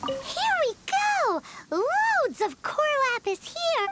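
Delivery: excited discovery. Acted. Finding the hidden stash.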